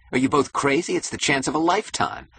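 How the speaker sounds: high, agitated outburst; excited cry. A narrator's reading. Keating urges both toward the chance, crying out. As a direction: cry out, pitched high and urgent. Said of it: "cried Keating".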